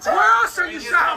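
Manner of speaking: urgent shout. Real, not acted. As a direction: shout it to cut through. Repeats the question, shouting.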